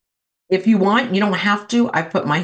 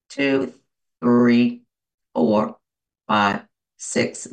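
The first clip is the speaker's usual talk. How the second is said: slow count; 9 semitones lower, much slower than usual. Shown as a demonstration. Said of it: "breathe in for a six count".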